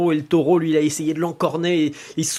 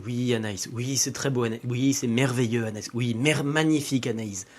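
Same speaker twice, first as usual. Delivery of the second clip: weary, fed up; 2 semitones lower than usual. Acted. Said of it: "elle en avait marre".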